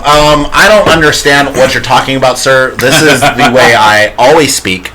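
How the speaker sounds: white voice. Pretend. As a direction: sound prim and very proper. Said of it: "He wants us to do the white voice".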